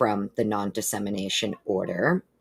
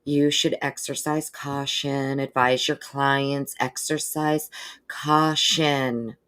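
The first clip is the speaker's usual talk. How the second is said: nicer, polite warning; 2 semitones higher, slower than usual. Retold or imitated. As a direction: warn him gently, word by word. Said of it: "they said it nicer than I would".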